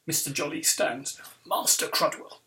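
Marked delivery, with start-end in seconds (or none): 1.4-2.4 mildly booming teacher's call; a touch of boom, understated. Acted. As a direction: summon a pupil with mock authority. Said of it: "he booms".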